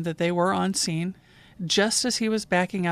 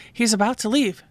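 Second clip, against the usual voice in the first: higher-pitched urgent plea, retold; insistent, raised voice with mild urgency; more excited caller; 4 semitones higher, 3 dB louder than usual. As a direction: imitate a caller getting worked up. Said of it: "she was getting more excited".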